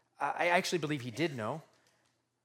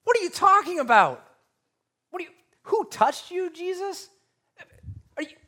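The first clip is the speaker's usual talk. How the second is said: high, loud incredulous rant; you can't be serious, look around; exasperated Peter; 9 semitones higher, 5 dB louder than usual. Retold or imitated. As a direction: Peter scolding Jesus in disbelief. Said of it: "he's like".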